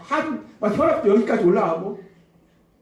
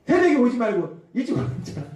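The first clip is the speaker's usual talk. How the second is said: quick mock scolding; mock yelling; 3 semitones higher, faster than usual. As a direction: imitate nagging at speed, without full volume. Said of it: "소리소리 지르는". (빠르게 야단치는 흉내)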